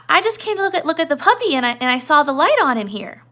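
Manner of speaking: lightly voiced simple-minded giant, nervous; Lenny. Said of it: "And Lenny's like".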